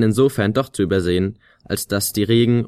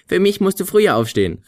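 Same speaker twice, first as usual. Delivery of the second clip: high, gleeful call; triumphant call; 9 semitones higher than usual. A narrator's reading. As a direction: crow it out after the hit. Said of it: "rief sie". (Flöte ruft triumphierend und hoch)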